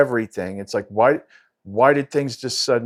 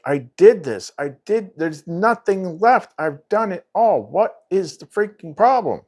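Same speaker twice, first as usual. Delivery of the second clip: voicing a frantic inner self, higher pitch; high, exasperated complaint of the panicking self; freaking out; 8 semitones higher than usual. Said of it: "the regular self is freaking, freaking out".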